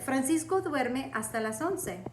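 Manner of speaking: clear, careful Spanish for the student to copy; teacher models Spanish for Victoria to repeat, clear and careful; model sentence for repeating. Shown as a demonstration. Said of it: "let's repeat these really quick".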